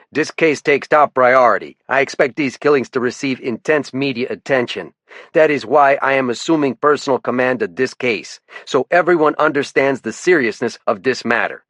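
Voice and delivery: lieutenant calling out a warden, faint French-Canadian lilt; French-Canadian accent. Acted. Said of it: "His accent tended to make his T H's sound like D's".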